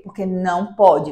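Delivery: firm "Porque não pode", no room for debate; firm answer. Shown as a demonstration. Mother demonstrating the parent's firm reply to a child. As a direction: close the argument flatly. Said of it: "você vai precisar ser firme".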